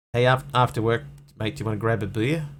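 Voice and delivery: casual Australian workmate voice; put-on Australian twang; Australian accent. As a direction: invite a mate in an Australian accent. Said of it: "That's very Australian".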